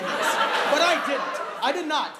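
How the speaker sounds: loud, slowed insistence; indignant. Acted. Comic insisting to the crowd, loud and slow. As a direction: lean into it, offended. Indignant rant about partner.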